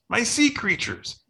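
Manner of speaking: put-on very high, slow child's shriek; small boy shrieking about his sea creatures. A narrator's reading. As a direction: squeal out like a small kid. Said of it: "And Levi shrieks".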